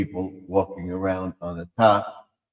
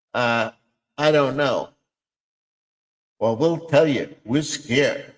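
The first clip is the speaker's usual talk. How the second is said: frog voice; 4 semitones higher than usual. Acted. Frogs answer in skit.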